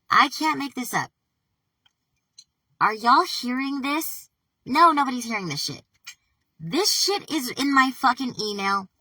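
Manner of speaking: loud, high-pitched alarm; freaked out. Real, not acted. Insisting someone else wrote this email, freaked out. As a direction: raise your voice in panicked disbelief. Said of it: "I'm getting fucking nervous".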